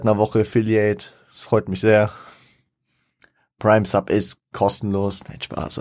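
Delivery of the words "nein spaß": whispered quick take-back; whispered aside. Real, not acted. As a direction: drop to a whisper, joking. Takes back the joke.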